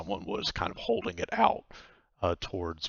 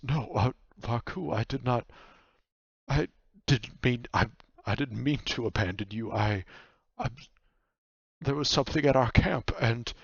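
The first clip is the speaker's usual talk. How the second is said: mildly flustered, stammering apology; lightly voiced guilty nightmare; apologetic nightmare; 4 semitones higher, 3 dB louder than usual. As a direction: stumble through an excuse, restarting often.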